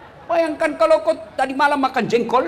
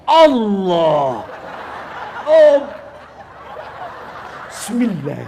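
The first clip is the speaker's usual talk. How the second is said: drawn-out, disruptive takbir and recitation; mock an over-pious worshipper, stretching the words; jemaah sok khusyuk; 4 semitones lower, much slower than usual. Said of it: "Mulai takbir dia ganggu kita". (menirukan bacaan salat yang dipanjang-panjangkan)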